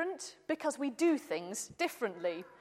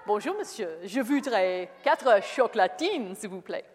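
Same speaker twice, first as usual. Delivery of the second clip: proud French order; 4 dB louder than usual. Retold or imitated. Proud Englishman ordering chocolatines from a new baker. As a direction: show off the new word, pleased. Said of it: "proudly say".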